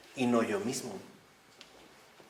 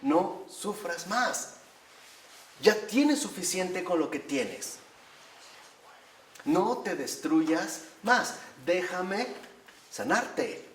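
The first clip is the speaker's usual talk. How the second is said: tender voice of God; 3 semitones higher, slower than usual. Retold or imitated. The Lord tenderly pleading with his hurting child, slow and gentle. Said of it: "el Señor nos ve y con lágrimas en los ojos".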